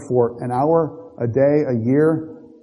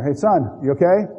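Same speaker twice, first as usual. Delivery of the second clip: raised, higher call to a son below; calling down a well; 4 semitones higher than usual. Pretend. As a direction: shout down the well to check on him.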